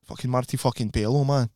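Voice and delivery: lightly done Glaswegian accent; put-on Scottish accent. Shown as a demonstration. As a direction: say it as a Glaswegian catchphrase. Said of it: "always get into it by doing the Marty Pello thing".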